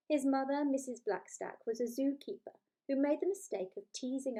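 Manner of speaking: lively, playful storybook reading; story narration. A narrator's reading. Author reading her book to listeners, playful storytelling. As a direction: read it like a bedtime story with relish.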